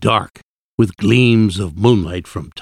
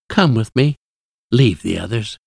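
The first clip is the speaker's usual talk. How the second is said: sweet coaxing. A narrator's reading. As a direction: coax him away from his friends. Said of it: "she whispered sweetly".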